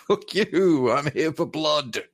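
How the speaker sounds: defiant elf warrior snarl. Acted. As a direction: throw it at them like a vow of slaughter. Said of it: "The War Dancer went".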